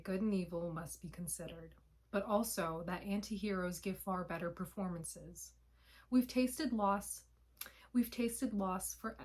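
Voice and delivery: measured, even reading of a poem; poem recitation. Acted. Creator reads own poem to viewers, poem recitation. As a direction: read it as continuous spoken-word verse.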